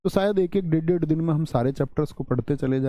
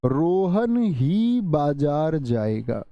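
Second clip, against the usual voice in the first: slow, weight on ही; stress on ही; much slower than usual. Shown as a demonstration. Teacher showing emphasis with ही. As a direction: press ही to show emphasis. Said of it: "जोर की".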